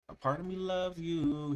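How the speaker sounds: lifted, light imitation of the vocal; imitating a light delivery. Reacting to a song, imitating the singer lightly. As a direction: float the line lightly. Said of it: "He got light".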